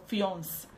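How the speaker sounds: "fiance" cut to a single syllable, rhyming with nonce; "fiance" without its "ay" ending; mispronounced fiancé. Shown as a demonstration. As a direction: say "fiance" as "fyonce", dropping the final vowel. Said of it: "why do people say fiance".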